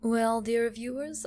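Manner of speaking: ordinary delivery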